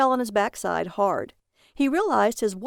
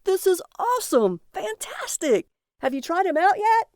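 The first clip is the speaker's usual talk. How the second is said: put-on much higher, louder childish glee; overjoyed; 11 semitones higher, 3 dB louder than usual. A narrator's reading. Husband gushes over his new wishmaster, childishly thrilled. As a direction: gush like a kid at Christmas.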